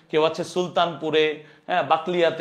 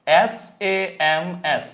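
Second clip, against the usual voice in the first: slow spelling; slower than usual. Shown as a demonstration. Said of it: "আমার নাম কি?".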